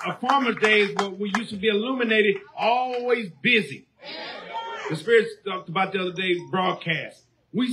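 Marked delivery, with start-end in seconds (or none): 2.6-5.3 preaching shout. Real, not acted. Preacher exclaiming to congregation.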